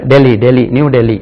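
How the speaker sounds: "டெல்லி" as "Deh-lee", h dropped; English pronunciation of Delhi. Shown as a demonstration. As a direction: say "டெல்லி" smoothly with no h. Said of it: "English உச்சரிப்பு என்ன?".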